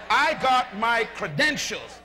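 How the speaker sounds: slow, every word meant; slow and full of belief. Shown as a demonstration. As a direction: declare it like you really believe it. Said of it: "say it loud like you really believe it".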